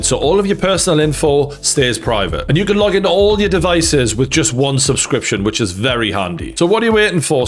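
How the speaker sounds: upbeat, fluent sales read; sponsor ad read. Acted. Host plugs a VPN to his viewers, ad read. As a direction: pitch it briskly to viewers as a sponsor spot.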